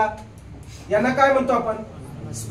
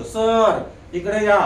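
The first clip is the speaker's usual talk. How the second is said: slow classroom call; much slower than usual. Retold or imitated. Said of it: "आपण third language मध्येच म्हणतो".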